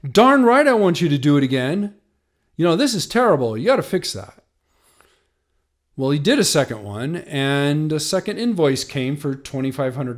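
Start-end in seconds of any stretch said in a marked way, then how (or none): 0.1-4.4 firm, louder retold retort; snapping back at the attorney, half-acted; retold anger. To the patent attorney about the botched search, a retold angry retort.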